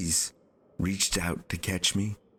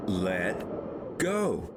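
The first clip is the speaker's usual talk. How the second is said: yelled. Acted. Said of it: "yelled one of the aeronauts".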